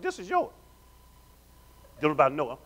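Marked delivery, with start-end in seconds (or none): 0.0-0.5 softly, much quieter, intimate; hushed divine promise; God's quiet voice. Acted. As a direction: let God speak it gently. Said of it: "God said".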